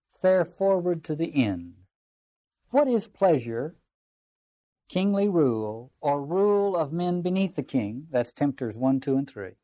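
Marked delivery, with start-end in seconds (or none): 0.1-8.1 slow, declaimed counsel, words held long; lightly acted weighty questioning; fourth tempter. Fourth tempter advising Thomas, slow declamation.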